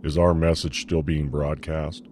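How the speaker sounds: slow, understated nervous question; a hint of nervous captain; mild nerves. A narrator's reading. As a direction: ask it slowly, worried. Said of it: "the captain asked nervously".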